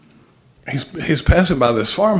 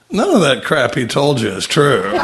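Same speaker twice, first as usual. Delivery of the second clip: laughing punchline; 5 dB louder than usual. Retold or imitated. Punchline of the joke.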